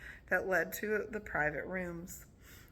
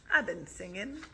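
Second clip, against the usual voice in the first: put-on louder, mildly proud child; 5 dB louder than usual. A narrator's reading. Boots reporting her singing to the adults, proudly. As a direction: say it with a touch of pride. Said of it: "said Boots proudly".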